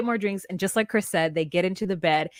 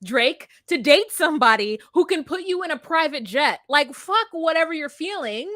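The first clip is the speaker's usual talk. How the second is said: louder, exasperated insistence; worked-up insistence; 4 semitones higher, 4 dB louder than usual. Real, not acted. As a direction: argue it hard, pitch pushed up. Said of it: "I'm so mad you told me that".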